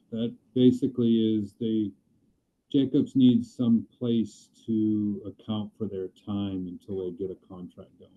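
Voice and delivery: underwater mic sound; words muffled through a bad mic. Real, not acted. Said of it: "That's his audio".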